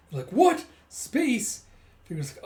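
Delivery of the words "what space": high, loud disbelieving yelps; mock-shocked outbursts, voice leaping up; acted shock. Characters hearing she's in space, loud acted astonishment. Characters react to startling news.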